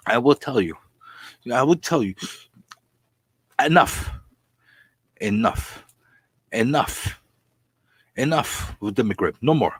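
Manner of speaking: mock-exasperated outburst; agitated. Real, not acted. Vlogger cutting off his McRib rant, agitated. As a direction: stop the rant with a huff. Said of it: "I'm getting agitated".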